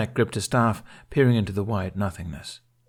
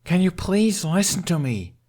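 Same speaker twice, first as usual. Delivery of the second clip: much higher, slow, exasperated snap; snapping; 11 semitones higher, 4 dB louder than usual. A narrator's reading. Hiccup snapping at his ignoring father, exasperated. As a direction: make him finally listen. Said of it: "Hiccup snapped".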